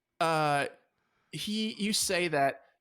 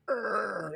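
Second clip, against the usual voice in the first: voiced creaking door, higher; imitated door creak; 6 semitones higher than usual. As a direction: mimic a latch-door creaking open. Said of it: "pushes it open. It's like".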